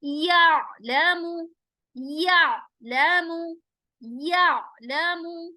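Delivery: यअलमु with a stop on अ from mid-throat; यअलमु slow with throat ain. Shown as a demonstration. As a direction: catch the voice in the throat on अ. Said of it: "आइन पर आवाज को stop करेंगे".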